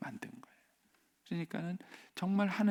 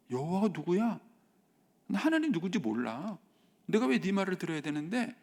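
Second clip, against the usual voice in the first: put-on defiant child; 5 semitones higher than usual. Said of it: "이렇게 얘기가 나가게 되는 겁니다".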